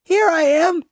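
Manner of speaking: high, strained call; trapped mouse answering his family; mouse calling back. A narrator's reading. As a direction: cry out from far inside the shade. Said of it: "called back".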